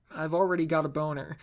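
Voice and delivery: plain reading voice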